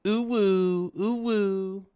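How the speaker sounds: reading out a viewer's chat in a high silly hoot; high mock hoot. Streamer voicing a chat message, high mock hoot. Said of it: "we got Ashton Bean saying".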